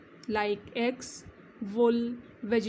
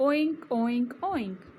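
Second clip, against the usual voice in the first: pig oinks; much slower than usual. Acted. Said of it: "listen to Pinky. She says".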